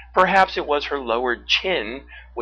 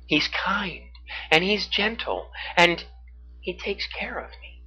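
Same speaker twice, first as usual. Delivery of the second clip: higher, tender little list; fond, smiling; 8 semitones higher than usual. A narrator's reading. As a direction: speak fondly with a growing smile. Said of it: "beginning to smile as thoughts of him".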